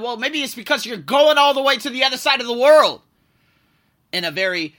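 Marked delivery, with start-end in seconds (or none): 0.0-3.0 higher, louder, unsettling warning tone from a friend; disconcerting voice. Retold or imitated. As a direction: make it sound ominous and worrying. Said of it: "in a very disconcerting voice".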